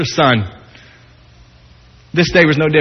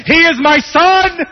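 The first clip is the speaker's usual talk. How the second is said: high, pleading shout of a father; desperate yell; 8 semitones higher, slower than usual. Retold or imitated. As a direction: yell it over the crowd to reach your son. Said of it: "yelling to them".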